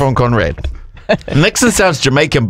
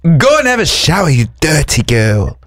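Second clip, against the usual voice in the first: put-on Swedish accent. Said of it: "I work at ikea".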